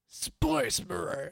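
slow, clumsy Cockney imitation; attempted Cockney accent. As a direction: copy the Cockney orc cry, badly. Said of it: "I'm not good at accents".

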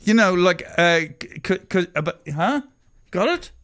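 oversell the pun, pressing; pushy joke explaining. Acted.

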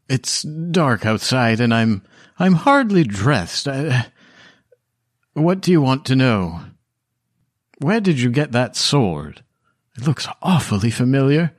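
a hint of a startled elderly widow at her door; old widow.

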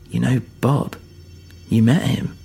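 lightly voiced old figure taken by surprise; a hint of amazement in an old voice; curious old character, trailing into wonder; old skeleton, intrigued.

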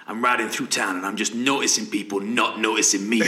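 giggling as he retells the line; laughing through a quote. Retold or imitated. Telling his co-host Bestie's line while laughing.

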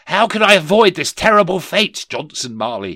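high, loud horrified plea; desperate cry. Acted. Horrified Scrooge begs the ghost, crying out high. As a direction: cry out for a way of escape. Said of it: "he cried".

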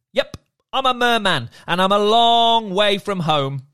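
a friendly sea creature chatting, light and breezy; cheerful merman. Acted. Merman character voiced.

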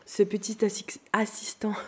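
talking with almonds in mouth; words round a mouthful of nuts; mouth full. Real, not acted. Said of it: "j'étais en train de manger des amandes".

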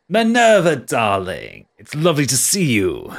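gushing stage-host hello; theatrical greeting. Acted. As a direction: greet a darling with showy flourish. Quattro greets Minerva theatrically.

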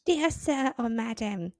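hammed-up Southern gentleman; Southern accent. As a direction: read a formal letter in an American Southern accent. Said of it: "that was a classic American Southern accent".

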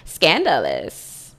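low, slow scandalized drawl; mock scandalized. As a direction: drag out scandalous. Gossip mock shock.

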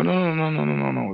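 high, insistent mock denial; retold protest. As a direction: imitate yourself hurriedly correcting someone. Retold hurried denial to co-owner.

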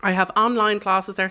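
talking through a mouthful of pie; words round a bite of mince pie; mouth full. Real, not acted. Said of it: "you've asked me this with a mouthful of mince pie".

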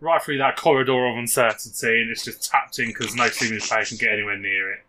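lightly voiced match commentary; radio commentary. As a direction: call the goal like local radio. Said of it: "Be, be Steve Watkins".

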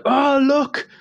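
put-on very high excited little-kid cry; imitating a small boy; toddler delight. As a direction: squeal it like a thrilled toddler. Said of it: "he was like".

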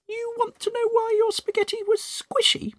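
Mrs Twit gloating. Acted. Mrs Twit teasing her husband after the meal, high gloating voice. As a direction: dangle the secret with glee.

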